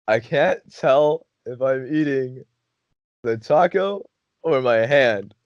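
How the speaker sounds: slow, drawn-out stoned confusion; stoned bafflement. Retold or imitated. Stoned friend, baffled by taco.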